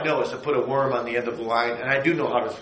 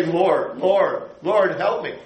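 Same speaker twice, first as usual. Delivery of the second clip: distressed prayer; 4 semitones higher, 3 dB louder, slower than usual. Retold or imitated. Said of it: "I could just say".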